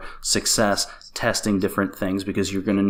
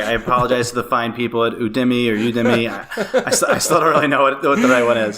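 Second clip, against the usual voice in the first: laughing apology; 3 dB louder than usual. Real, not acted. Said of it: "I hate the pronunciation thing".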